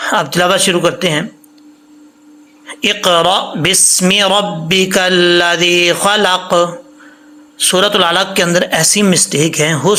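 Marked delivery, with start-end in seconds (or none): 2.8-6.8 slow, drawn-out melodic tilawat; Quran recitation. Acted. Teacher opening the lesson, recites slowly and melodically. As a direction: chant each word long and sung.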